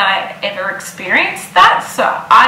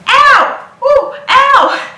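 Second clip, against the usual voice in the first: high, loud ows through a laugh; pained yelps; 5 dB louder, much slower than usual. Retold or imitated. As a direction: yelp at each stab, half laughing. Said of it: "Mum and Lee are looking at me and I'm like".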